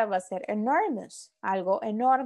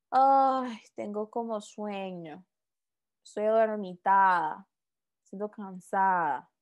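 mildly sleepy, sighing into it; a touch of drowsy, trailing-off weariness; acted sleepiness. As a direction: play tired, letting the voice sink. Acts out being sleepy.

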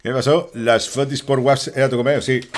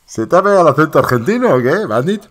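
higher, louder mock-incredulous question; raised-voice ribbing; loud teasing; 5 semitones higher, 7 dB louder than usual. Real, not acted. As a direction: tease a friend with amused disbelief. Teasing co-host about accent, after laughing.

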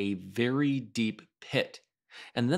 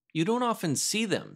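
careless; 10 semitones higher than usual. Acted. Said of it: "said Christopher Robin carelessly".

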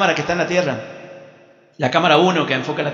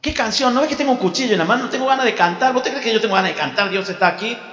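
high, fast protest; exasperated father; 5 semitones higher than usual. Acted. Father with a knife refusing to sing, exasperated.

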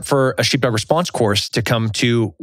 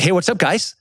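put-on Texas accent; 6 semitones higher than usual. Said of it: "the total Texas, um, accent and hill country boy attitude".

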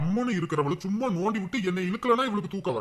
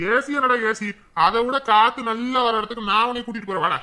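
louder playful scolding; father mock-scolding his son, louder; 3 semitones higher, 6 dB louder than usual. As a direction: tell the boy off, half in jest.

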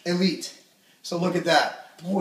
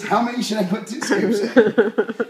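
mock meathead question; 2 semitones higher than usual. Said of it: "I seriously get that email".

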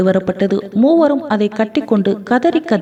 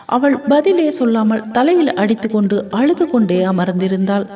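ordinary delivery, nothing marked

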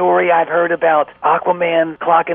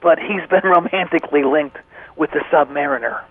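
conspiratorial. Acted. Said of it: "You didn't hear from me".

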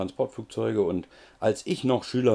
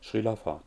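"Srila Fa" as three even, softer syllables; three counted syllables; 5 dB quieter than usual. Shown as a demonstration. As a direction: recite "Srila Fa" in a falling three-beat group. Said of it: "drei Silben".

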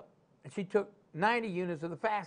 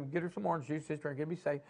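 calm advice; 4 semitones lower, 7 dB quieter, faster than usual. Retold or imitated. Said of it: "Betty said".

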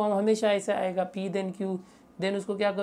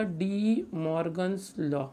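slow, spaced-out dictation; name it slowly for note-takers; dictating; slower than usual. Real, not acted. Teacher names the law for students, dictating slowly.

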